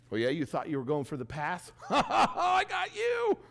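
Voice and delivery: teasing taunt ending in a laugh; mock gloating. Imagining passing the rider at the finish, gloating taunt with a laugh. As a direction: rub it in, then laugh it off. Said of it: "I'm rubbing it in her face".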